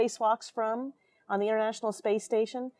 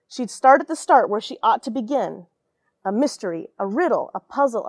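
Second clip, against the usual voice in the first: lively rhyming picture-book read; storybook narration with a sing-song lilt; reading to children. A narrator's reading. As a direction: read it aloud to a class of kids, bouncing the rhyme. Reads picture book aloud.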